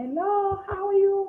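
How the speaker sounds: put-on very high-pitched, slow girlish voice. Showing how a girl's voice sounds: very high-pitched voice like a girl. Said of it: "very high, high pitch".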